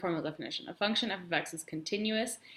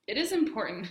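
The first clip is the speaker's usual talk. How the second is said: hiccups; 4 semitones higher, faster than usual. Real, not acted. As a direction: cut off by a hiccup. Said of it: "sorry, I have the hiccups".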